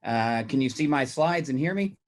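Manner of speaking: hoarse after choking on coffee; rough, raspy throat; raspy whisper. Real, not acted. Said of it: "excuse my voice".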